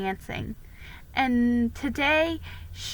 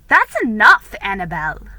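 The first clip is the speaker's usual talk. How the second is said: stern rebuke; 9 dB louder than usual. Acted. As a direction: cut her off firmly. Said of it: "said Miss Manderley".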